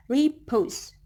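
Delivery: "repose" with light "re" and weighted "pose"; stress on second syllable. Shown as a demonstration. Teacher giving an iambic example, stress on "pose" in "repose". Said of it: "Re is unstressed syllable".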